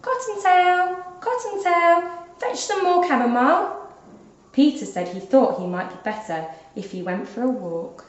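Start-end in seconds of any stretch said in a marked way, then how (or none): 0.0-3.9 put-on a mother rabbit calling her child from inside. A narrator's reading.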